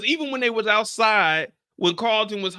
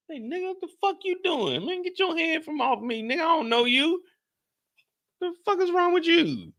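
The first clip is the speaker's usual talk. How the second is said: high-pitched pretend outrage at a stranger; mock outraged yell; 10 semitones higher than usual. Pretending a stranger at the meeting touched him, mock outraged. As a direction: bark it high like he grabbed you.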